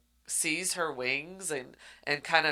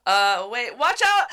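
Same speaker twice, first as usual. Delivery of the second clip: rising, louder alarmed yell; warning shout; 8 semitones higher, 9 dB louder than usual. Retold or imitated. Rain warning her before the crash.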